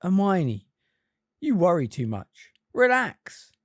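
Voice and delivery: talking with cheeks full of food; mouth full. A narrator's reading. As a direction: say it round a mouthful. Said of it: "with his cheeks bulging".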